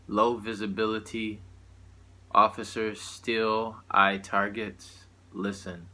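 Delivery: measured spoken-word delivery with long pauses between lines; poetry recital. Acted. Poet performing a satirical poem to listeners, measured recital. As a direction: recite it line by line, letting each phrase land. Reads own poem aloud.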